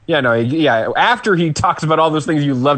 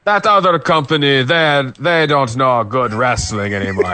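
wrestling announcer voice; 2 semitones lower than usual. Retold or imitated. Voicing the commentator's boast.

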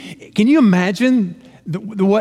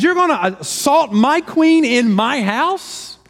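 angry king; 7 semitones higher, slower than usual. Retold or imitated. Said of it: "Now the king's even more mad".

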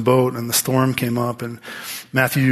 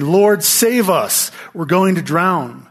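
pleading cry; 5 semitones higher, slower than usual. Retold or imitated. Disciples wake Jesus in storm.

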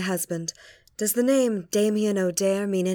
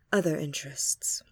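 whispering; 3 semitones lower, 3 dB quieter than usual. Acted. Confiding about husband.

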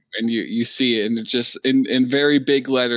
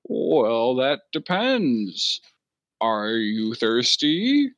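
slow, knowing bartender hint; sly bartender; much slower than usual. Acted. Turtle bartender hinting to the lost player, slow and sly. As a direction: stretch the hint out slowly, slyly.

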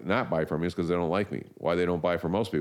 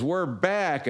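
much higher, elated cry; mock triumph; 12 semitones higher than usual. Retelling an ad, the encyclopedia boss cheering in mock triumph. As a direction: crow it like the comeback of the year. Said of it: "He goes, he goes".

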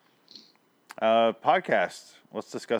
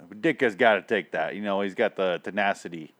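hammed-up Chicago sports fan; mock Chicago accent. Fan praising the coach, mock Chicago accent. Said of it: "pulling that accent out".

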